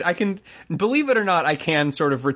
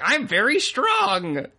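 slow, much higher dopey brag; dumb strongman; 11 semitones higher, much slower than usual. Retold or imitated. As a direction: stretch it out like a dim muscle guy. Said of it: "it's like".

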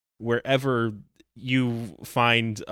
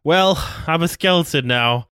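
Crypt Keeper voice; 7 semitones higher, 6 dB louder than usual. Acted. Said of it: "that wasn't the Crypt Keeper in the slightest".

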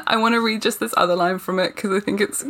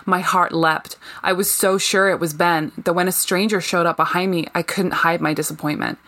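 reads aloud in a put-on American accent. Mock American accent. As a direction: Briton reading a novel in her best American accent. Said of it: "pull in my best American accent".

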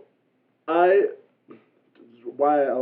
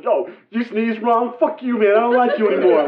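hot-headed jerk; 6 semitones higher than usual. Retold or imitated. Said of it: "He was like".

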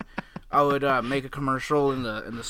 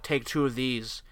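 low sultry voice; 4 semitones lower, 9 dB quieter than usual. Retold or imitated. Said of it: "she's like".

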